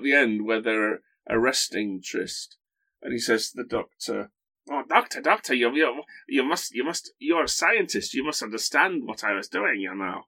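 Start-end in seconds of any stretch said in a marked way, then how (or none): 4.7-10.2 lightly put-on pleading German accent. Arrested villain pleading to the Doctor, in a hammy German accent. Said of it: "That's my, um, German accent".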